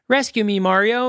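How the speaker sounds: a hint of a helpless princess calling out; Princess Peach. Fan mimics the old Peach needing rescue, lightly plaintive. Mock damsel-in-distress Peach line.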